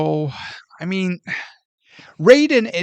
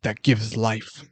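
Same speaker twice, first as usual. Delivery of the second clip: mock Katana; 5 semitones lower than usual. Mocking Katana's advice to Liu Kang, lightly imitated. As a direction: lightly imitate a stiff actress. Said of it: "she's, like, trying to tell him shit".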